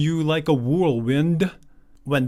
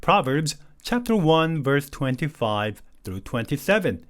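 slow read-aloud; much slower than usual. Shown as a demonstration. Slow reading of the verse reference.

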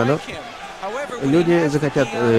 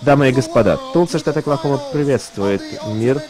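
ring announcer. Real, not acted.

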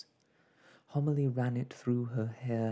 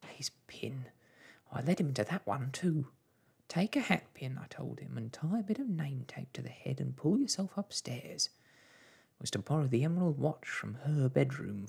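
higher, fretful mother's voice; self-blaming mother; 4 semitones higher than usual. Acted. Mother blames herself for father's errand, fretful. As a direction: recount it with growing regret.

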